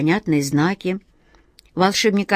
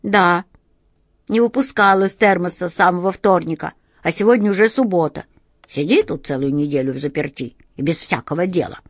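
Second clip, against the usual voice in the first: whiny drawl. Acted. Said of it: "капризно растягивая слова".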